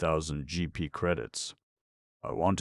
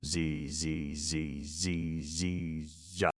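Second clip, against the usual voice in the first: hard Vegan s sounds; 5 dB quieter, much slower than usual. A narrator's reading. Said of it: "which all we Vegans must make much too hard".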